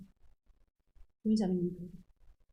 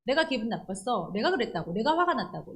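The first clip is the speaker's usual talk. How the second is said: put-on childish whining; 2 semitones higher than usual. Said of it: "어린애들이 하는 거죠".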